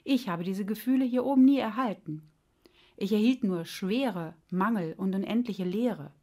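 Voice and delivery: reproachful heart, lightly played; scolding. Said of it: "schimpfte das Herz". (das Herz schimpft gespielt vorwurfsvoll mit dem Verstand)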